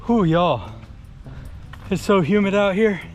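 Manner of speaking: panting mid-run; talking while huffing and puffing; out of breath. Real, not acted. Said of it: "I'm already huffing and puffing".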